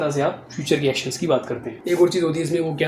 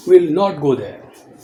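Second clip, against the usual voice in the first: slow, louder negative example; slow dictation; 6 dB louder, much slower than usual. Shown as a demonstration. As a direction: stretch out will not for the class. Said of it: "हम वहाँ नहीं जाएंगे".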